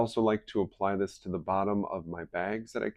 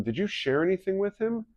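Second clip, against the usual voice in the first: much higher pointed question; wife pressing Drew, high pointed voice; suspicious wife; 12 semitones higher than usual. Retold or imitated. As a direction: press for the truth. Wife voiced in retold call.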